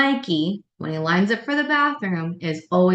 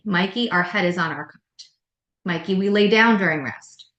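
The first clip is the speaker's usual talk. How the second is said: name first, then the rule, level and firm; calm but meaning business; teacher stating a nap-time rule; firm even tone; 4 dB louder than usual. Shown as a demonstration. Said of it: "start with their name".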